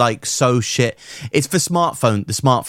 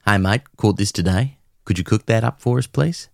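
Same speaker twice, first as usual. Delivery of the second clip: put-on Aussie accent. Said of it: "is what he would say verbatim".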